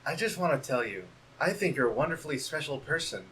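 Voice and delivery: timid hushed valentine; soft shy letter. Acted. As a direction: read it gently like a bashful friend.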